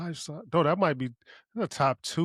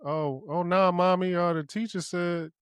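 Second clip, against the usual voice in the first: lightly voiced child, higher pitch; imitating daughter; 5 semitones higher than usual. Daughter telling Mommy what the teacher said, mock child voice. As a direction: put on a small protesting daughter. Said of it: "my daughter tried that one time".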